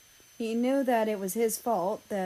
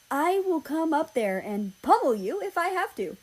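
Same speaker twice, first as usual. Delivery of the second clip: mock threat; 8 semitones higher, 3 dB louder than usual. Playful threat between lovers.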